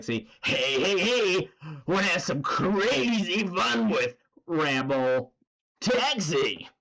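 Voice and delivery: mock ad pitch, slow and bouncy; imitating the video. Streamer quoting Rebel Taxi's video with hype. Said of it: "it's so funny when it's like".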